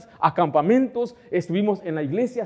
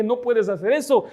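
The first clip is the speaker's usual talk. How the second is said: higher-pitched, insistent objection; acted-out reproof, pitched up; retold remonstrance; 6 semitones higher than usual. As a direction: firmly stop a rash colleague. Retold remonstrance with a rash pastor.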